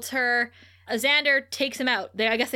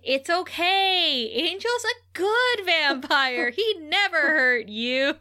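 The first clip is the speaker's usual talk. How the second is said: mock soothing Cordy; 4 semitones higher, slower than usual. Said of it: "Cordy says".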